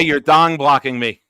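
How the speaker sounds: laughing. Real, not acted. Laughing accusation.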